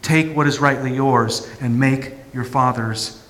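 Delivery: high, loud, stirring call to arms; rally him like a triumphant champion; rousing hero voice. Acted. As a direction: heroic inner voice urging Jesus to take the throne. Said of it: "I can hear the hero voice".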